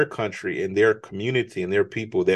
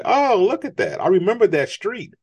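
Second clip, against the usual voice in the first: high, eager voice; excited recognition; 9 semitones higher than usual. Retold or imitated. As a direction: point out a remembered street on screen. Family recognizing places in movies.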